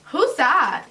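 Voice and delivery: put-on high, loud little-kid question; child's question. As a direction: blurt it like a curious child. Little child startles adults in story.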